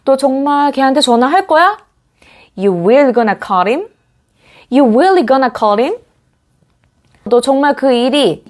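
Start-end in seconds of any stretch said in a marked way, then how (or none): 2.6-3.9 You really gonna call him said slowly, rising at the end; rising question. Shown as a demonstration. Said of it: "끝이 올리면서 발음하시면". 4.7-6.0 You really gonna call him said slowly, rising at the end; rising question. Shown as a demonstration. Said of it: "끝이 올리면서 발음하시면".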